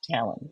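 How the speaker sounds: "talon" as TAL-un, stress on the first syllable; first-syllable stress variant. Shown as a demonstration. Card teacher showing a third way people say it, "talon" as TAL-un. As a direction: say "talon" with a short a, like a bird's claw. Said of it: "there's many different ways people pronounce it".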